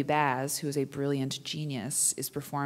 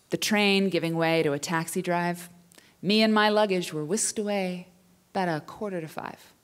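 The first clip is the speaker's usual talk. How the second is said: poem recital. Acted.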